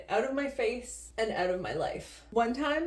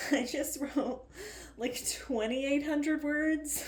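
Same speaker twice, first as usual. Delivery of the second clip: mock proud boast; 7 semitones higher, slower than usual. Fake boast about word count.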